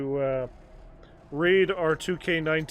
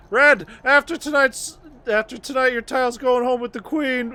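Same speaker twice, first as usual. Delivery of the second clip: higher and louder hammed-up wrestling promo; Ric Flair voice; 8 semitones higher, 7 dB louder than usual. Gamer reading Flair's taunting text, mock promo voice. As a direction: strut through the line like a wrestling heel. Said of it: "Ric Flair!".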